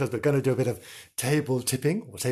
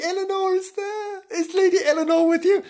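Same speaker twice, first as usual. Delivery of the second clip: high quavering call to the ghost; spooky seance call; 13 semitones higher, 3 dB louder than usual. Acted. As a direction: call into the spirit world. Calling out to the spirit.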